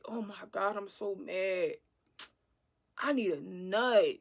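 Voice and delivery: low, breathy mock whisper of her date. She mimics her date whispering his lust. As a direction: hush it like a sleazy date confessing.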